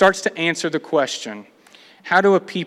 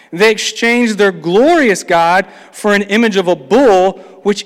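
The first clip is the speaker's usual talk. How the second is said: louder, weighty reading, slowing on they forgot the God; scripture reading; 3 dB louder than usual. Acted. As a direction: read the judgment verses to the congregation. Reading psalm aloud in sermon.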